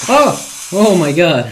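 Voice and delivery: high, loud startled cry; shocked shout. Real, not acted. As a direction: yell in real shock. Near fail in game, shouting.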